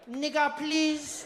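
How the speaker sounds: high, very slow smug drawl; smug cousin. Retold or imitated. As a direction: gloat over the scolding. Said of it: "my cousin would be there like".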